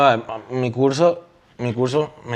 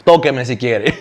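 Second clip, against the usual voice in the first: laughing quote; 3 dB louder, slower than usual. Retold or imitated. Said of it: "Y el profesor".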